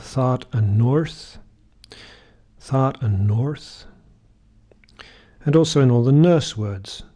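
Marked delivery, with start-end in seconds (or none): 0.0-1.4 American: "thought" with an open ah, "north" with a clear R; American accent. Shown as a demonstration. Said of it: "Americans would have". 2.6-3.9 American "Thought" with an open ah, "north" with a clear R, slowly; slow American accent. Shown as a demonstration. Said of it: "Americans would have".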